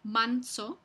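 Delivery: manso with the n at the ridge; manso, a tongue-tip n before s; alveolar n. Shown as a demonstration. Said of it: "también es alveolar".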